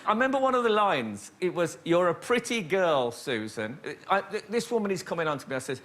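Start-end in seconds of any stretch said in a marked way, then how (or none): 1.8-3.8 distinctive put-on American accent; actor's stock American accent for a script line. Shown as a demonstration. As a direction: do your one and only American accent. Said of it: "one American accent, and it's quite distinctive".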